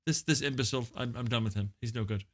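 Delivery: a hint of a huffy guest; lightly voiced celebrity guest, dismissive. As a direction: quietly dismiss the interviewer in character.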